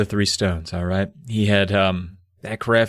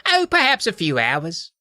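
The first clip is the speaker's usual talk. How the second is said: raised, put-on wizard voice; regretful wizard; 5 semitones higher than usual. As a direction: answer with mock-sad reluctance. Sad wizard replies.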